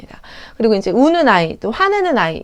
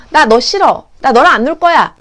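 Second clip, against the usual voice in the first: louder, blunt mock-child voice; child rejecting a friend; 3 semitones higher, 6 dB louder than usual. Child telling a friend they won't play, mock petulant. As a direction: push the friend away like a small kid. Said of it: "아이들이 가끔 그래요".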